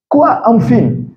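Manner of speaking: high, puzzled echo; baffled listener. Acted. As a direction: play a native speaker who cannot understand. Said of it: "la personne va pas comprendre". (natif perplexe, voix haut perchée)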